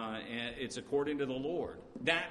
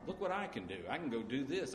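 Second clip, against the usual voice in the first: mock boast; faster than usual. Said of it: "is that a boast?".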